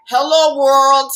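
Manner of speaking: nasal imitation of a friend; nasally voice. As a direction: say it through the nose. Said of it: "he says it with a nasally voice".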